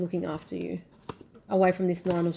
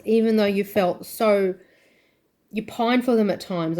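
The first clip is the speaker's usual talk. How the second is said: rising, louder emotional outpouring; overflowing with feeling for them; 3 dB louder than usual. Real, not acted. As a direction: caught up in real emotion, voice swelling. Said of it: "I'm gonna get so emotional".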